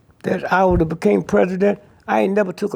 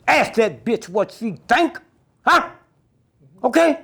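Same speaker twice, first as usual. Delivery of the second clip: heated; 5 semitones higher, 3 dB louder than usual. Real, not acted. Heated rant.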